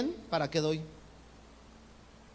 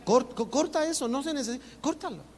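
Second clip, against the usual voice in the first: higher, urgent insistence to cut it off; a light hint of a tempter urging you to stop; the spirit of Cain urges stopping the offering, higher pitched; 6 semitones higher than usual.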